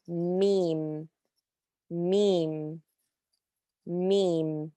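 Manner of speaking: "meme" repeated slowly as a demo; repeated meem. Shown as a demonstration. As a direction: say meem three times, plain M. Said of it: "This is a normal M sound".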